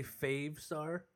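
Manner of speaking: "Fave" drawn out with a long a, as in "save"; long-a pronunciation. Shown as a demonstration. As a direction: slowly show "Fave" with the vowel of "day". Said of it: "Some people say".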